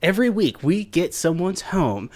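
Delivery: slow down and build to a loud high finish; mock reality-show announcer.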